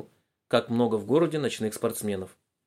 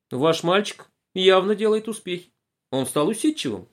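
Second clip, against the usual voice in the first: довольная учительница; 7 semitones higher, 4 dB louder than usual. A narrator's reading. Учительница хвалит.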